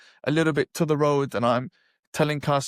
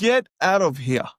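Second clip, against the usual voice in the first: dismissive; 3 semitones higher, 3 dB louder than usual. Retold or imitated. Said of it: "Literally, this was my reaction".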